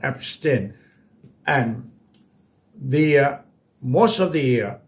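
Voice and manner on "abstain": "abstain" with the weight on STAIN; stress on second syllable. Shown as a demonstration. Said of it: "หนักพยางค์ที่สอง". (เน้นหนักพยางค์ที่สองของ "abstain")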